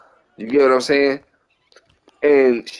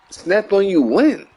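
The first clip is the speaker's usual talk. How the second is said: slow, drawn-out retold disbelief; incredulous question; 3 semitones higher, slower than usual. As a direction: stretch the question out in mock disbelief. Retells his disbelief at her accusation.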